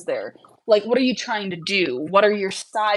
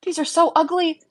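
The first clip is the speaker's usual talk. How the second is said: mock judge; 9 semitones higher than usual. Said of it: "He goes".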